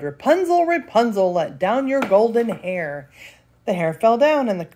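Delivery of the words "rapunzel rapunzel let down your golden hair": witch calling up. Acted. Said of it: "she cried".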